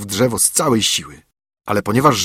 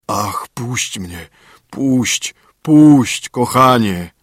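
very plaintive; 3 dB louder, much slower than usual. A narrator's reading. Trapped spirit begging the student, plaintive and drawn out. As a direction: beg pitifully, swelling as you go. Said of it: "krzyknął wielce żałosnym głosem".

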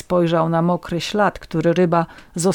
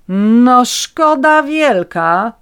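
high, loud, very slow outrage; indignant; 6 semitones higher, 6 dB louder, much slower than usual. A narrator's reading. Woman outraged at the police question, slow high indignation. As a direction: drag it out, scandalised. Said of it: "oburzyłam się".

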